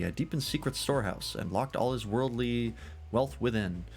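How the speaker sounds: lilting, animated legend-telling; tavern storyteller. Acted. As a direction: spin the old tale like a tavern scholar.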